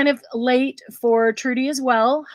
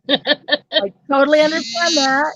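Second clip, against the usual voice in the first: laughing through the words; 5 semitones higher than usual. Real, not acted. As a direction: chuckle while you say it. Laughing about falling asleep.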